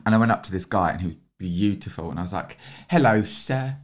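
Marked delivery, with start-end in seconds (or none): 2.9-3.8 hammed-up British greeting; mock-formal British hello; accentuated British accent. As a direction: put on an old-fashioned British accent. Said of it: "a slightly accentuated Br-, British accent".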